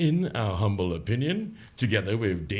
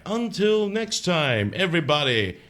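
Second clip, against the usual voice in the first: drawn-out sign-off; 3 semitones higher, slower than usual. Real, not acted.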